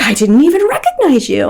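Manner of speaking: retold grandmother. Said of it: "this older woman, this grandmother".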